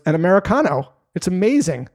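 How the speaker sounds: upbeat. Retold or imitated. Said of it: "She goes".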